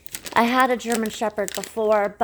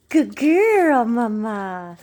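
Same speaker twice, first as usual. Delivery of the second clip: excited praise; 5 dB louder, much slower than usual. Real, not acted. Praising the dog.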